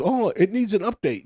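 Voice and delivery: high, slightly hammed-up machine excuse; mock device notice. Mimicking a television claiming it needs updating, mock-innocent. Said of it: "it says".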